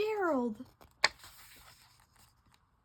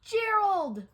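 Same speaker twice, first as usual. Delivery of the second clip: calling out; 4 semitones higher, 6 dB louder than usual. Acted. Calling out to friend.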